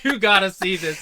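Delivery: high, loud, through laughter; laughing mock excitement. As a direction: echo the excited man while cracking up. Listener joins the impression, laughing.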